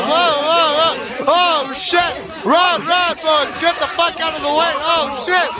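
panicked shouting. Real, not acted. Panic at strange light.

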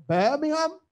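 Birmingham said the local way, middle h dropped; local Birmingham pronunciation. Shown as a demonstration. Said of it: "that's how they pronounce it".

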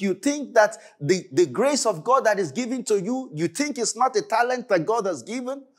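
urgent, rolling sermon questions; impassioned preaching. Acted. Preacher challenging congregation over God's given talent, impassioned. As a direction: press the congregation with insistent questions.

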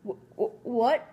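stammered shock rising on what; sputtering. Acted. SpongeBob just got fired, sputtering in shock. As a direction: choke out the words in disbelief. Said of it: "SpongeBob sputtered".

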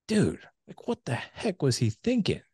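high, slow, incredulous mutter to himself; as if shaking his head at his dad; exasperated disbelief. Retold or imitated. Father looking at his own kid, disbelieving his dad. Angry at father, inner rant.

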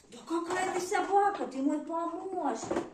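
high, fast gushing praise; high excited praise. Real, not acted. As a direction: gush over the dog, quick and high. Praising dog, baby talk.

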